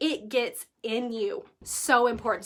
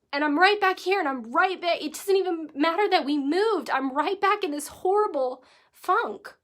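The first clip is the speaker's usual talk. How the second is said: getting emotional; 5 semitones higher than usual. Real, not acted. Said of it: "I'm getting emotional".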